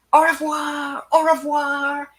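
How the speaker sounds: high, loud call across the water, mock French; calling out farewell. Bridge crew calling goodbye to the departing ship, high loud call. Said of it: "the guys on top were waving".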